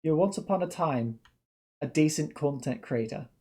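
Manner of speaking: mimicking a botched Australian accent; mock a clumsy Australian accent; bad Australian accent. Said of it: "Australian accent like that?".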